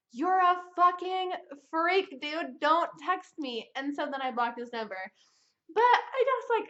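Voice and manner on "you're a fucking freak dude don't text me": slow disgusted telling-off. Retold or imitated. She tells him off.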